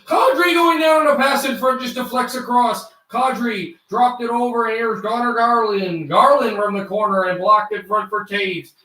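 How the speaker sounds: brisk broadcaster calling the rush; hockey play-by-play. Shown as a demonstration. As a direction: call the game live, rising on the chances. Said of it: "I know who ran".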